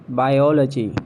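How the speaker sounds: "biology" as by-OL-uh-jee; British pronunciation. Shown as a demonstration. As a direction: stress OL in "biology". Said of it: "It's biology".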